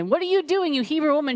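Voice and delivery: high, lightly acted patrolman's demand; mock challenge. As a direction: pounce on her with a high-pitched question. Patrolmen challenge her in the story.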